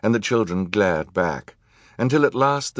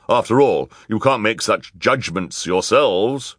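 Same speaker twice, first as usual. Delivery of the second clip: higher, drawn-out villainess voice; put-on villain woman, pitched up; villainous woman; 4 semitones higher, 4 dB louder than usual. A narrator's reading. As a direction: lecture them like a villainess. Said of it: "said the villainous woman".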